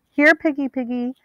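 high sing-song taunt; taunting call. A narrator's reading. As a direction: call out to the hunted girl, mocking. Pursuers taunting up stairs.

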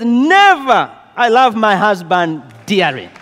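indignant refusal. Retold or imitated. Wife refusing divorce, indignant.

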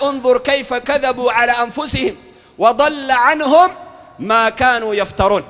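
slow, stretched scripture recitation; measured chant of holy text; Quran recitation. Acted. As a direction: draw out each phrase of the verse. Reciting a Quran verse to congregation.

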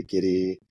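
Gitty said to rhyme with "kitty"; Gitty as other people pronounce it, like "giddy"; alternative pronunciation Gitty. Shown as a demonstration. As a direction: say Gitty with a light, quick middle t. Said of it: "some people say Gitty".

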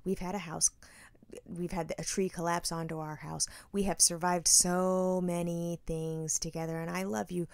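hushed tearful plea to husband on the phone; mock tearful plea. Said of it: "that's how I'm talking".

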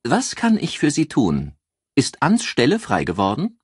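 high, loud, giddy question; excited. A narrator's reading. Joyce teases the detective on the phone, giddy and high. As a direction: tease him, all wound up. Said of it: "fragte aufgekratzt".

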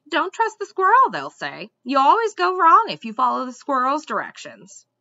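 loud, aggrieved, fussy squirrel rant; indignant squirrel. A narrator's reading. Squirrel complaining of ungrateful princes, indignantly. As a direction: grumble and scold, swooping up on key words.

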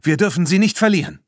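lauter und schneller, drängend; gerufen. A narrator's reading. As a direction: hastig hinterherrufen. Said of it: "rief Claire". (Claire drängt die Freunde zur Eile, laut und schnell)

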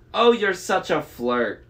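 high, loud flirty falsetto; coy falsetto. A narrator's reading. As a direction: flirt back in a fake bride voice. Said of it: "in his falsetto voice".

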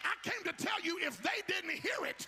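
high, loud shouted preaching; full-force preaching. Real, not acted. Preacher urging the congregation to believe what they heard, full-force shouted preaching. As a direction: belt out each phrase with driving fervour. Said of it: "I feel like preaching right here".

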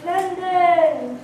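loud, eager cry of London!; excited shout. Acted. Peasant rallying the others, excited shout. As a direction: call out the city like a rallying cry.

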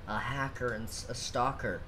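lightly voiced sleazy officer; sleazy cop voice. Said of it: "can you voice act that?".

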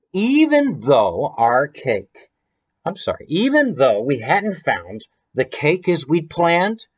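picture-book reading with a lilt; rhyming storybook reading. A narrator's reading. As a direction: read the rhyme aloud to the kids. Author reads rhyming picture book.

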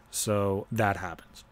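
slow dry whisper; whispered aside. Real, not acted. To the listener about his brother, a slow whisper. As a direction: let it drop to a whisper.

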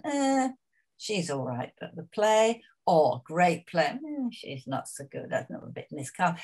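lightly voiced dismissive reviewer; a hint of a sniffy critic; mock critic. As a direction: toss off the critics' faint praise. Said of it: "they've said".

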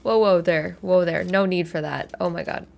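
alarmed character. Acted. Character reacts to pointed weapon.

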